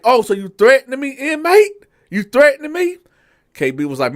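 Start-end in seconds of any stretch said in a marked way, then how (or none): 0.0-3.0 high, loud, fast mock disbelief; captain bristling at the inmate; outraged captain. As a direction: throw the threat back at him. Captain reacts to threat.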